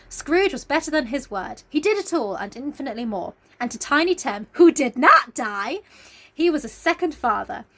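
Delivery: measured storybook reading; story narration. Acted. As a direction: read it like the book's closing lines. Reading book ending.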